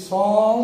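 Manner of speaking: "সম" drawn out as "sawm"; "সম" with a long, clear open o; vowel sounded. Shown as a demonstration. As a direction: stretch the o vowel in "সম" before the m. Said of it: "তাহলে একটা অ আসছে".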